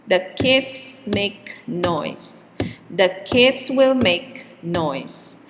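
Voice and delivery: put-on The and will squeezed in quickly between kids, make and noise; weak The, strong kids make noise; keep the beat. Shown as a demonstration. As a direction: hold the tempo as words are added. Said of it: "the time between stressed words is always the same".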